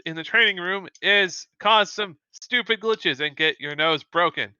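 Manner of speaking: lightly acted scornful dressing-down; scolding. Instructor to a failing student, mildly acted scolding. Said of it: "straight to Madeline and say".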